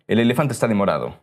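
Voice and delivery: quick, hammed-up fake Italian accent. Showing his podcast host a fake Italian accent, quick and hammed-up. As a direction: rattle it off in a put-on Italian accent. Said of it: "This is my fake Italian".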